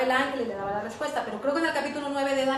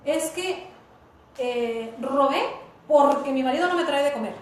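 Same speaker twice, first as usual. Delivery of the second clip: louder, whiny excuse to God; a mock excuse, louder at the end; self-justifying excuse; 4 dB louder than usual. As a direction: make excuses, blaming the husband. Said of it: "No se justifique al momento de hablar con Dios".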